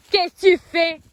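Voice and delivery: loud, high scolding repeated; scolding shout. Real, not acted. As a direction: call out sharply again. Scolding the horse again.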